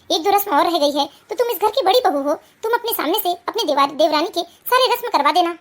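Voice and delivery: a hint of a pleading mother-in-law. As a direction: gently persuade the elder daughter-in-law.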